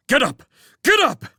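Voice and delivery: frantic high scream. A narrator's reading. Man screaming at himself to get up. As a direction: scream it at yourself in panic. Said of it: "he screamed inwardly".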